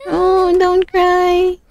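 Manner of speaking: put-on gently calm a crying child; comforting. (mahinahon at napakabagal na pag-alo)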